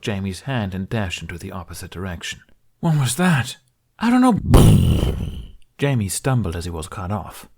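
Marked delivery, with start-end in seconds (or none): 2.8-3.6 alarmed. Acted. Explosions, fleeing through woods. 4.0-5.4 panicked. Acted. Explosions, fleeing through woods.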